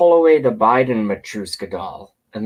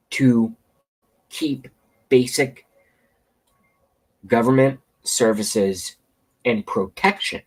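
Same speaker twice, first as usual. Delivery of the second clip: talking through hiccups; words broken by hiccups. Real, not acted. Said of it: "I have the hiccups".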